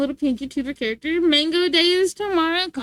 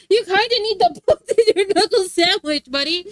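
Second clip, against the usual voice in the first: laughing; 4 semitones higher, 4 dB louder than usual. Real, not acted. Laughing at the joke.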